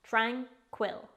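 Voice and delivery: "tranquil" slowly, split as tran, quil; slow teaching demo of "tranquil"; syllable by syllable. Shown as a demonstration. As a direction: sound out "tranquil" with a full quil. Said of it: "It's pronounced".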